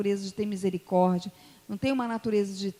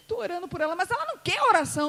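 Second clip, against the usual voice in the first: high-pitched, emotional reply; retold answer through mock tears; tearful explaining; 8 semitones higher, much faster than usual. Preacher answering guest's friend mid-prayer, tearful and high. Acted exchange while weeping in prayer.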